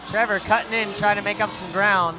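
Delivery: energetic motorsport announcer; live play-by-play. Real, not acted. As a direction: call the action as the cars launch, lifting key words.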